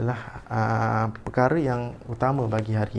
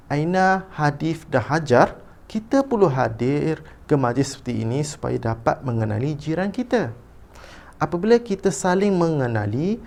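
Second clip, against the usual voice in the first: raised pitch, deliberate phrase-by-phrase read-aloud; expressive reading; 4 semitones higher than usual. Shown as a demonstration. Teacher reads a mother's answer for pupils, expressive intonation. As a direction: model each phrase with big rises and falls. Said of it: "baca dahulu petikan dengan intonasi".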